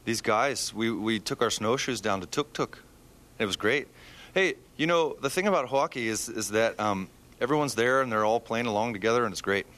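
light put-on Canadian accent; a lightly done Canadian accent. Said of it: "Can I do my Canadian accent?".

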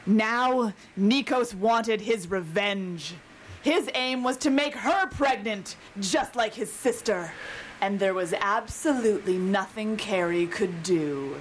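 dramatic blurb reading. Acted. Author reading a trashy romance blurb to the hosts, dramatically. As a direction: read it like a melodramatic back cover. Reads a novel's back cover.

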